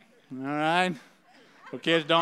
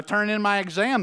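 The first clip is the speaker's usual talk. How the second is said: confident; 4 semitones higher, 4 dB louder than usual. Acted. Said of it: "the student said confidently".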